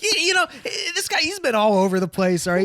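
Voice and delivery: bubbly chat-show host voice; chirpy TV host, all smiles; morning show host. Acted. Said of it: "Something about that tone and fucking energy".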